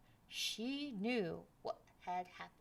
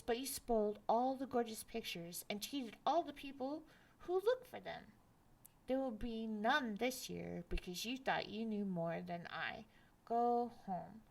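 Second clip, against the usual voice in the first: 1 scolding mother; 4 dB louder than usual. Acted.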